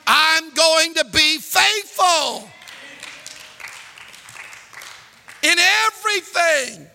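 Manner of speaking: fiery pulpit rebuke; preaching. Acted. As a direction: rebuke the congregation. Preaching at full force.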